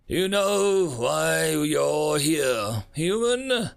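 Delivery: slow, menacing alien ruler voice. Acted. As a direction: loom over him, drawn out. Alien ruler questions captive.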